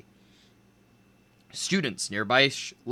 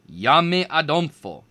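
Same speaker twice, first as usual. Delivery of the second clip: nervous; 4 semitones higher, 6 dB louder than usual. A narrator's reading. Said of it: "Kwame gulped".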